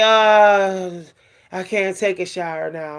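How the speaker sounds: the body drags out a weary no; body's reluctant voice. Retold or imitated. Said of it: "your body's gonna say".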